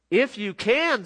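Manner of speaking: incredulous echo. Acted. Jesus echoes father's doubt.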